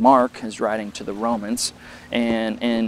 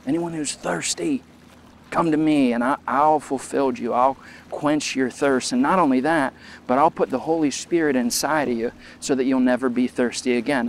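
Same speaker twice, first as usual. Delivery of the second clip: a preacher voicing Jesus crying out, pitched up; calling out; 2 semitones higher than usual. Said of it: "he stands up and yells".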